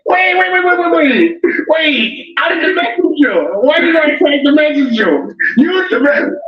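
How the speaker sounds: high-pitched, hammed-up pleading; frantic protest. Frantic mock protest about messenger role.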